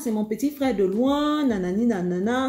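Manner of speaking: friend's breezy denial. Retold or imitated. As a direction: play the innocent friend brushing it off. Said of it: "Elle me dit".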